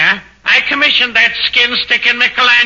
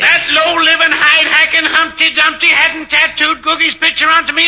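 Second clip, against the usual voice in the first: higher-pitched, comic tirade; indignant rant; 4 semitones higher than usual. Acted. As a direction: rail against the man who cheated you, pitched up. Accused rants about the tattooist.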